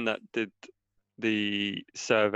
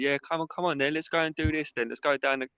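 higher-pitched put-on Cockney geezer; mock Cockney; 6 semitones higher than usual. Mocking the game's London voices in Cockney. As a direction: ham up the London lad. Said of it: "not everyone speaks like that".

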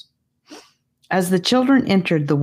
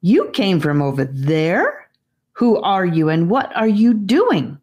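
raised voice; 3 semitones higher than usual. Acted. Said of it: "Here she raised her voice".

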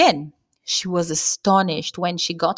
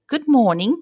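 prettily; 5 semitones higher than usual. Retold or imitated.

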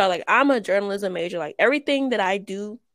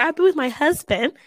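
self-conscious, slightly higher pitch; awkward; 6 semitones higher than usual. Real, not acted. Podcaster awkwardly calling him her husband, self-conscious. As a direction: say it awkwardly, amused at yourself. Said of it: "this is awkward".

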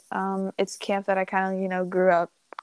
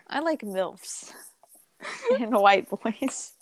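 laughing; slower than usual. Real, not acted. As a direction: confess through laughter. Giggling through a confession.

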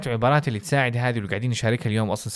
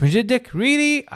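Really؟ shot up very high in disbelief; amazed really; 11 semitones higher, 3 dB louder, much slower than usual. Shown as a demonstration. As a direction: act stunned by the news. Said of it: "بنبرة الصوت هذه". (دهشة وعدم تصديق)

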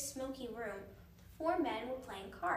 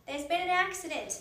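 higher, louder, cheery announcement; cheerily; 5 semitones higher, 7 dB louder than usual. A narrator's reading. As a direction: break the news brightly, as if all is fine. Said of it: "said cheerily".

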